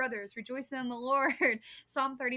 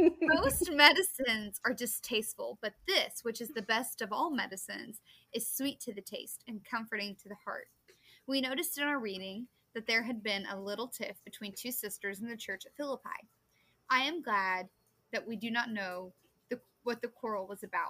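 normal talking voice

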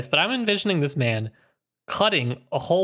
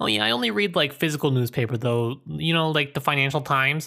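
ordinary delivery

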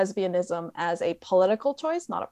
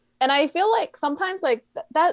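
normal talking voice

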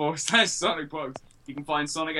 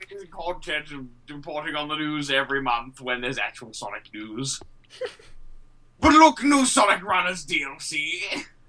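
put-on British politician voice, louder; 4 dB louder than usual. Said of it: "That was a great impression of David Cameron".

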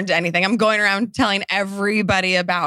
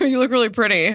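mock, imitated sarcastic tone; 2 semitones higher than usual. Retelling how the other speaker spoke to someone in a hot tub: imitating a sarcastic compliment. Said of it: "is he being sarcastic?".

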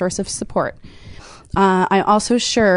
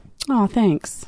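tongue-in-cheek, insincere, sarcastic throwaway tone. Making up the other speaker's reply to being thanked: sarcastic imitation of Paul. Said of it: "I was sarcastic at the end".

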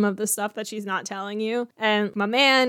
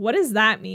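put-on, upset voice. Retelling a scene where a man questions his fiancée: imitating an upset character. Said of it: "now he's upset".

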